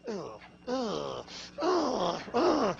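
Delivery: exaggerated groans of disgust; hammed-up disgusted grunts; mock disgusted groans. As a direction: groan like the critics. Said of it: "they say".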